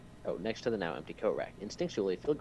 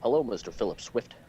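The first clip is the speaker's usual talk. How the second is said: louder amateur presidential impersonation; rough impersonation of a president, run together; Barack Obama; 3 semitones higher, 6 dB louder than usual. Acted. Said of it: "no, he has long pauses".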